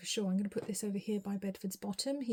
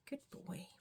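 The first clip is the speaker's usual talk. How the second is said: soft praise; 12 dB quieter than usual. Real, not acted. Praising cat softly.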